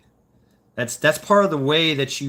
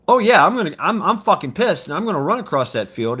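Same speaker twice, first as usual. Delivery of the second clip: pumped-up anger; 5 semitones higher, 4 dB louder than usual. Retold or imitated. Voicing angry starved Marine.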